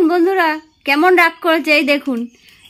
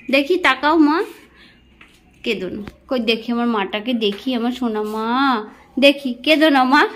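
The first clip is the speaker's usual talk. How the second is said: tender coaxing; 3 semitones lower than usual. Real, not acted. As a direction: hush her gently, coaxing her to look up. Consoling crying mother tenderly.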